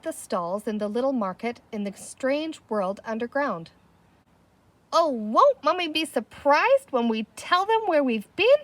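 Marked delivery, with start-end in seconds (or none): 4.9-8.6 put-on high excited squeal, a child's delight. A narrator's reading. Patsy telling the others about surprising Mummy, excited squeal. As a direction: squeal it out, barely containing yourself. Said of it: "squealed Patsy".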